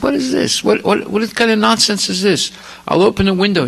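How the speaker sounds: put-on trapped young man raising an indignant cry; outraged protest. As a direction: sputter at the nonsense, voice jumping way up. Boy protests being trapped, outraged.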